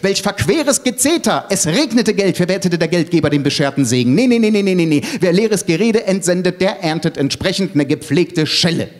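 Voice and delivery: high-pitched scolding; agitated tirade. Acted. Elke rejects the empty talk at the summit, agitated. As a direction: keep scolding, high and insistent. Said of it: "entgegnete Elke erregt".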